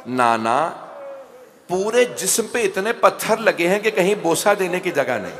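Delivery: wailing lament. Acted. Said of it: "बुलंद आवाज से रो के कहा".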